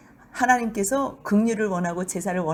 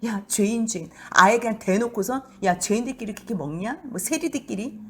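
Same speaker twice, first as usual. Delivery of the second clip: mocking jeer. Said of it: "비아냥거리는 거지요".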